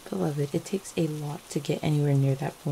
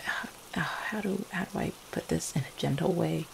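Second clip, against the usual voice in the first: soft, halting search for words; quiet, faltering, feeling for gentle phrasing; hesitant; 6 dB quieter than usual. Acted. Vampire searching for a gentle way to tell partner, hesitant. Hesitant before bad news.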